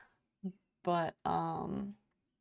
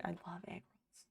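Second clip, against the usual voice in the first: softer; 10 dB quieter than usual. Real, not acted. Dreamy aside about food.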